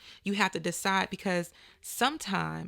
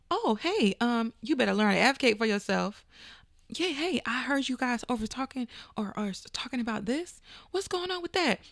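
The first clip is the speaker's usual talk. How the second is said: nervy eavesdropper; 3 semitones higher than usual. Acted. Speaker acts out interrupting people to ask about an opportunity, nosy. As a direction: play someone boldly joining a conversation.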